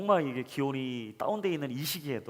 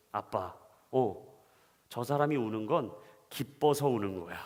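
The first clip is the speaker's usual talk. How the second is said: put-on child's voice; 6 semitones lower than usual. Son explains the skater's tears.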